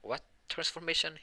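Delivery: high-pitched retold question; puzzled surprise. Girlfriend asks Deku about the transformation, puzzled.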